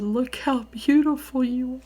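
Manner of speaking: high-pitched retold gushing; amazed admiring exclamation. Coworkers exclaim on seeing her.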